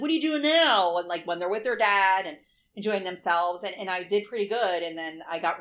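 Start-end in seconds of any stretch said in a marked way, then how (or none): 0.0-1.0 crazy mom. Retold or imitated. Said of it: "be a crazy mom and be like".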